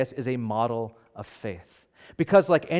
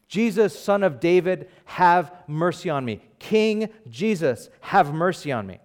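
higher-pitched retold cry for mercy; calling out; 4 semitones higher than usual. Blind beggar to Jesus passing by, calling out. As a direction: call out for mercy, voice lifted. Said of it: "began to shout out loud".

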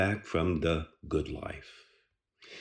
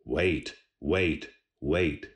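mechanical voice; 4 semitones lower, much slower than usual. Retold or imitated. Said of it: "rude, mechanical voice commanding".

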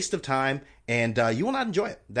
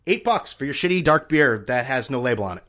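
indignant; 6 dB louder than usual. Retold or imitated. Indignant at beer price.

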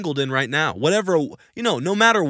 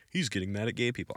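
mock accusation; 7 semitones lower, 12 dB quieter, faster than usual. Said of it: "people twist your words".

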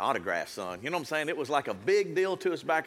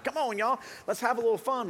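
hype man call; 6 semitones higher than usual. Retold or imitated. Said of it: "I'm like".

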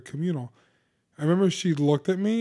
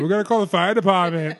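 louder, higher mock Boston accent; Ben Affleck; 4 semitones higher, 5 dB louder than usual. Imitating friends deciding to get help, hammed-up Boston accent. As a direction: lay on a bad Boston accent, half laughing. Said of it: "Why is everyone Ben Affleck?".

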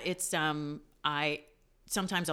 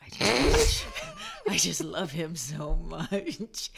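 gushing; 6 dB louder, much slower than usual. Retold or imitated. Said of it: "retold childhood crush".

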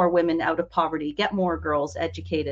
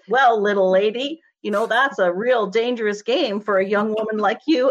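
mansplaining guy. Retold or imitated. Man at the bar mansplaining to her, mild patronizing voice. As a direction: talk down to her like a smug stranger. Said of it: "went right into mansplaining".

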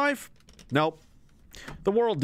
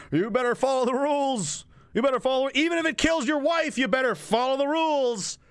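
mock Doug Ford; 6 semitones higher than usual. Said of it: "Doug Ford saying".

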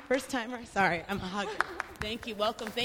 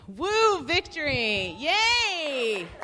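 a little mock victory whoop; playful cheer; 2 semitones higher, 3 dB louder, much slower than usual. Real, not acted. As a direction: cheer your small win. Celebrating two days without crying.

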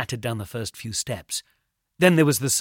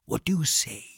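whispering. Acted. Bleacher whispering menace.

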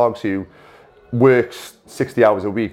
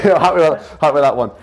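laughing; 7 semitones higher, 5 dB louder, faster than usual. Real, not acted. Teasing friend about his appearance.

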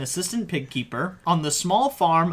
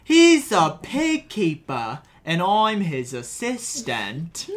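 put-on Welsh accent; slower than usual. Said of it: "that's what a Welsh accent is".

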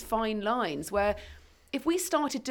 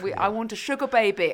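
put-on northern accent; 3 semitones higher, 4 dB louder than usual. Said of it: "he does it in a northern accent".

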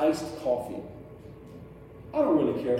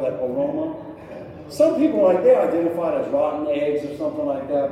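mock-savoring the smell, pitched up; sarcastic relish; 4 dB louder than usual. Preacher mocking sulfur water to congregation, sarcastic. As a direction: relish the stink with fake delight.

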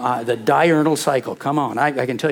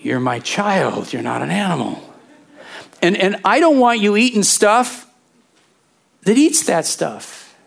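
fatherly God; 4 semitones higher than usual. Retold or imitated. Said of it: "God says".

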